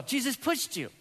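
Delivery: put-on high, curious toddler question; little daughter's voice. Pastor voicing his daughter's odd claim, high toddler voice. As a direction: sound like a wide-eyed two-year-old.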